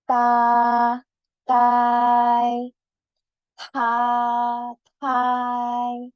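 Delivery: "ta" unaspirated, "tha" with a puff of air; t versus th drill. Shown as a demonstration. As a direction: contrast plain t and breathy th. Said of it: "Gerak ya, kalau yang T".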